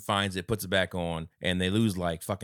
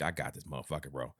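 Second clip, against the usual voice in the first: confident; 6 semitones lower, 10 dB quieter than usual. Retold or imitated. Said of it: "Jan's like".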